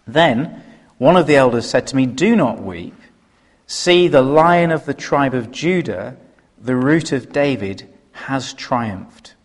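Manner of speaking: measured Bible reading to the church; scripture reading. Acted. Preacher reading the verse to the congregation, measured. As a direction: read the verse with weight.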